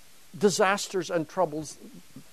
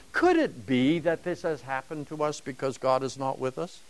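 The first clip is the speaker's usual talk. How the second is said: mild, musing inquiry, rising at the end; intellectual question; 2 semitones lower, 4 dB quieter than usual. Shown as a demonstration. Lecturer showing the wrong reading of the people's question, mildly inquiring. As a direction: ask it as a detached, tentative query. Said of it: "This is not an intellectual question".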